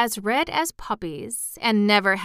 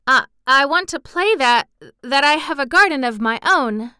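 nervous halting confession, a little higher; stammering; 5 semitones higher, 7 dB louder than usual. A narrator's reading. Mary nervously confesses her wish to the gardener, stammering. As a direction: stumble over the words, shy. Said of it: "she stammered".

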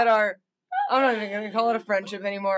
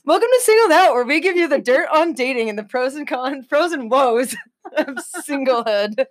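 sportscaster voice; 4 semitones higher than usual. Acted. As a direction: announce it like a sports host. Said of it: "Should I use, like, a sportscaster voice?".

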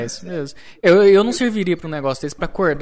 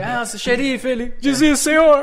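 higher-pitched mocking imitation of a taunting instructor; mock military instructor; 6 semitones higher, slower than usual. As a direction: imitate the drill taunt, rising into a laugh. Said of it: "eles falavam isso mesmo".

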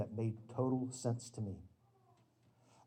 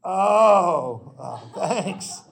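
embarrassed thanks; 6 semitones higher, 12 dB louder, much slower than usual. Retold or imitated. Embarrassed friend's reply.

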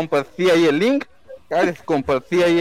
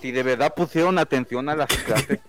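smug superfan. Acted. Superfan persona continues.

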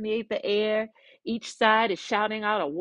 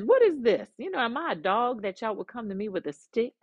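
insulted giant; 2 semitones higher than usual. Retold or imitated. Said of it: "now he's insulted".

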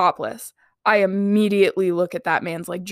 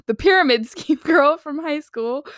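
"pyramid" said right through a laugh, higher; amused correction of "pyramid"; 5 semitones higher than usual. Real, not acted. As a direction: fix the word while laughing. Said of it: "Oh my God".

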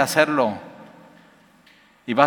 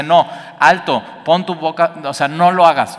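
firm stop; 3 semitones higher, 5 dB louder than usual. Acted. Scripture warns against sin.

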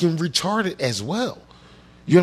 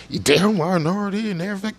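higher-pitched mocking singsong; mock-sympathetic refrain, pitched up; mocking parroting; 5 semitones higher than usual. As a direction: parrot a tired talking point in a high voice. Mimicking the refrain, then cuts it off.

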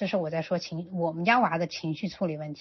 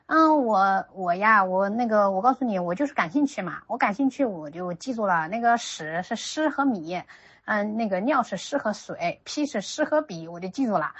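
put-on proud little boy; 2 semitones higher, 5 dB louder than usual. Mother voices her son explaining proudly.

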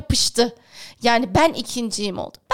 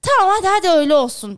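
brushing her off, fast and loud; dismissive; 3 semitones higher, 5 dB louder, faster than usual. Retold or imitated. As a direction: wave it away impatiently.

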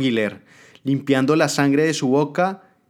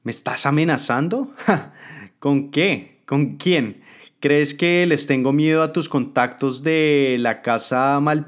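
raised, taunting villain voice; menacing Jimena; 3 semitones higher than usual. Acted. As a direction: sneer down at the traitor. Jimena threatens her adviser.

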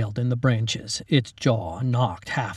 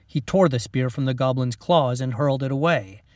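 ordinary delivery, nothing marked

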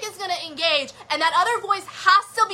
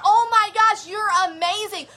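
cheering inner voice; 4 semitones higher than usual. Retold or imitated. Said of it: "It's that inner".

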